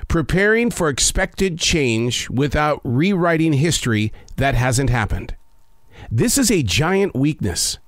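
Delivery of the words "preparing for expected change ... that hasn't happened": slightly slower, more deliberate reading; measured pace, easing down at the end. Shown as a demonstration. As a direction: take your time over each phrase. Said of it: "I'm gonna say it slower".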